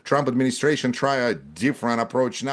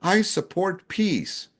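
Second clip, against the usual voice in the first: mock quote; 7 semitones higher, much slower than usual. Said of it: "who will say".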